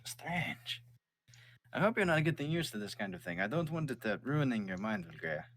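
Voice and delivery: father's voice. Acted. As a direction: warn your child off city life. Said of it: "He goes".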